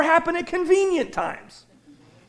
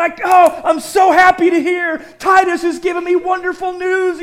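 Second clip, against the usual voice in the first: joyful Paul; 4 semitones higher, 4 dB louder than usual. Retold or imitated. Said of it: "Paul's going".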